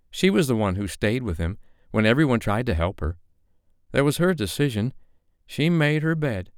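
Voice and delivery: irritated dame. A narrator's reading. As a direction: wave it away with irritation.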